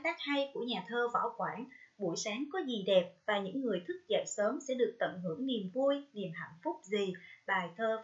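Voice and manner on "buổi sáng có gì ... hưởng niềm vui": ordinary delivery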